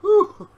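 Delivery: high loud exhale of effort; a loud tired whew; winded whew. Real, not acted. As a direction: puff out the breath, spent. Winded after showing his body.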